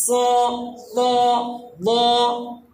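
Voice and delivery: "স, ল, ল, ক" each with a heavy rounded vowel; heavy o-like vowels, one letter at a time; thick letters. Shown as a demonstration. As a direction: recite each letter full and separate. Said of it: "মোটা হয়, মোটা হবে".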